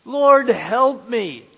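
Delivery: a man clinging to a branch begs for rescue; pleading cry. Acted. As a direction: cry out to the Lord for help. Desperate man hanging on branch.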